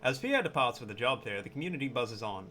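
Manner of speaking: hushed wildlife film narrator; nature documentary. Acted.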